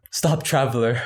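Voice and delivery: lightly voiced game character stopping the player; video game NPC. Friend retelling a Scottish stranger as a game character, mock NPC voice. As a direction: hail him like a quest giver in a game, mildly. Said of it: "it really was like a video game".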